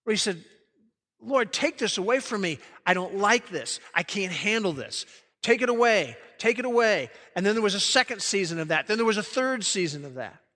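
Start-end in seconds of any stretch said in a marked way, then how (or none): 1.2-7.1 imitating an earnest, insistent plea to God; acted urgent prayer, mildly intense. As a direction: plead firmly, pressing each short demand. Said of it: "three seasons of intense prayer".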